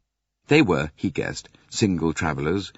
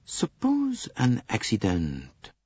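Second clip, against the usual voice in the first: slow, ominous; 4 semitones higher, slower than usual. Acted. Poirot suggests slowly.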